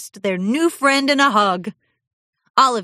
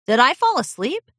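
higher, lightly voiced drowsy mare; sleepy pony; 7 semitones higher, 3 dB louder than usual. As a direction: ask as if just waking. Glittermint asks drowsily.

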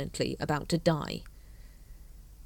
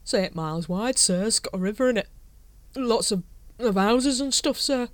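reasoning; 5 semitones higher than usual. Acted. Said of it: "he reasoned".

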